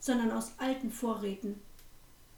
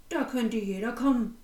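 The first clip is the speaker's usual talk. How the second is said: louder, curt innkeeper turning her away; gruff refusal; 4 dB louder than usual. Acted. Innkeeper rebuffing the hungry girl, louder and gruff. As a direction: brush her off with a louder, hard voice.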